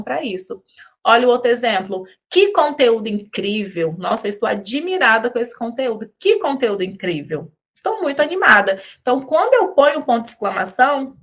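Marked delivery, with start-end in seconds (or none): 2.3-8.8 amazed exclamation. Shown as a demonstration. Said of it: "eu estou mudando o tom da minha voz".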